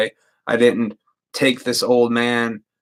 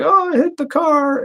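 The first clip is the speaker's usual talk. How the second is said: put-on shaken old man. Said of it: "he's like".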